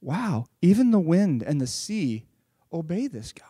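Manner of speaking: hushed awe, dropping to a whisper; amazed. Acted. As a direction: marvel under your breath as a stunned disciple. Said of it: "They're, like, amazed".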